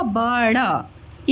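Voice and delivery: letters drawn out very slowly; slow spelling. Shown as a demonstration. Teacher building रबड़ letter by letter, very slowly. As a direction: sound out each letter slowly for a child. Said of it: "अब ये र".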